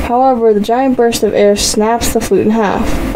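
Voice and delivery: bright, even storyteller read; story narration. A narrator's reading. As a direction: read the story to your viewers. Reads interactive story narration.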